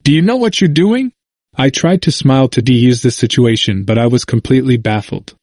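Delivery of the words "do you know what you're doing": high, insistent question again, finger wagging; a hint of a stern elder; repeated challenge. A narrator's reading. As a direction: push the question harder. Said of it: "asked again".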